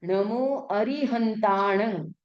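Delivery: slow, nasal ण at the end of अरिहंताणं; Prakrit nasal ending. Shown as a demonstration. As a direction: say नमो अरिहंताणं slowly, ending through the nose. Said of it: "प्राकृत में बोलते हैं घ". (धीरे, "अरिहंताणं" का अंत नाक से)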